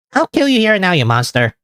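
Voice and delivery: mock threat. Character threatens over toppings.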